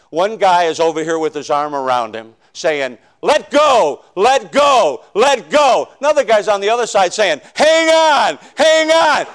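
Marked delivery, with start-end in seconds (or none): 3.2-5.9 urgent shout. Retold or imitated. Altar worker urging a seeker. 7.5-9.2 urgent shout. Retold or imitated. Second altar worker urging opposite.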